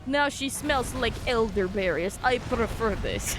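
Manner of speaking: put-on a dog musing in a mild Russian accent. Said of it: "he has, like, a Russian accent".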